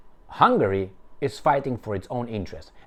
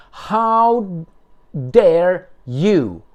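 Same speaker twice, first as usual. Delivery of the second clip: indignant, higher and louder; loud mocking how dare you; mock outrage; 5 semitones higher, 6 dB louder, much slower than usual. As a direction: hurl it back as a mock accusation. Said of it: "Remember that?".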